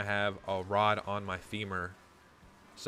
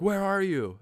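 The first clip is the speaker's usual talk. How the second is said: higher, louder imitation of a worried mom; freaking-out mom; 9 semitones higher, 5 dB louder, slower than usual. Mom on the phone to son, freaking out. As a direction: demand it like a frantic mother. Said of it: "freaking out like a mom would".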